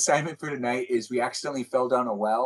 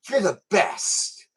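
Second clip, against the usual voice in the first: slow, higher-pitched mock adoration; gushing gratitude; 4 semitones higher, much slower than usual. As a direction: gush it, stretching the words. Acted grateful partner's gushing praise.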